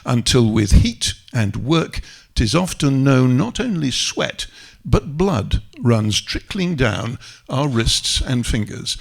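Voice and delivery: put-on slow, measured recital of an old poem; poem reading. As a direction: lecturer reads a washerwoman's poem to the audience, slow recital. Reads Mary Collier's poem aloud.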